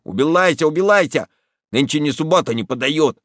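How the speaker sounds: Убилайся with l for r, annoyed; burred r. Acted. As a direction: brush him off, burring the r. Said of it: "своим картавым голосом".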